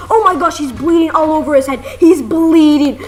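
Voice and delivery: imitating an alarmed girl; mock alarm. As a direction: raise the alarm in playful panic. Sister reports injury in alarm.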